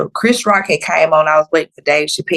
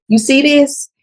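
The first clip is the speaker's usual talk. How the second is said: challenging; 9 semitones higher, slower than usual. Retold or imitated. Showing her Dexcom to staff.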